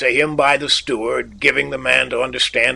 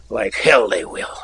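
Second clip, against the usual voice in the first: sardonic laugh; 2 semitones lower than usual. A narrator's reading. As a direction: laugh it off bitterly. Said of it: "He laughed sardonically".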